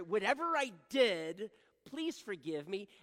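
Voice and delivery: loud, high, drawn-out mock plea; overdone apology. Husband apologizing to his upset wife, overdone plea. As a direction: exaggerate the blanket apology, slowly. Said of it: "I'm sorry".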